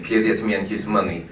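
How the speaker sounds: lightly imitated Russian accent; John Malkovich. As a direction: toss off the movie quote with a hint of Russian accent. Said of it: "and then again".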